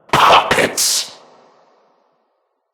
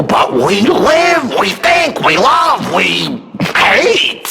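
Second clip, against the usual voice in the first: passionate declaration; 8 semitones higher than usual. Acted.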